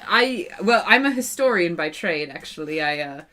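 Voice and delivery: put-on soft, hesitant New Zealand accent; a light New Zealand lilt. Historian introduces herself, in a soft New Zealand accent. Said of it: "that was totally a weird accent that I just slipped into".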